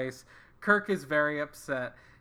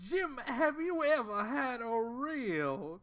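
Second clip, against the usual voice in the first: Foghorn Leghorn; 7 semitones higher, 3 dB quieter than usual. Retold or imitated. Host imitating Foghorn Leghorn offering a mint julep. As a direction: ham up the blustery cartoon Southern rooster. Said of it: "one hundred percent Foghorn Leghorn".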